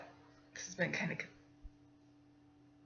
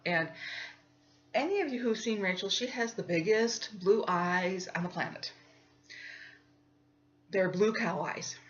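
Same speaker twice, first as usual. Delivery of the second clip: plain reading voice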